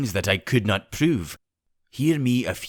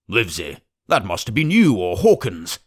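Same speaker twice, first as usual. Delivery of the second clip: a touch louder, blaming outburst; accusing cry; 4 dB louder than usual. Acted. Squire blaming doctor for the leak, mild cry. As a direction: round on the doctor with mild heat. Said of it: "cried the squire".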